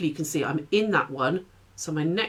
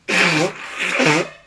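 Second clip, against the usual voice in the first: sneezing; 5 dB louder than usual. Real, not acted. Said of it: "Oh, excuse me".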